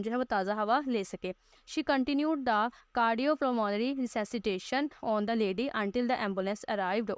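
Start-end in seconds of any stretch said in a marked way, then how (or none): 1.8-7.1 very slow reading aloud. Shown as a demonstration. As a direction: spell the English out slowly, word by word. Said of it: "teacher reads the English text".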